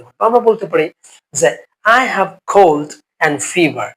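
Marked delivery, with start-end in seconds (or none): 2.0-3.9 slow model phrase. Shown as a demonstration. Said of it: "teacher models English phrase".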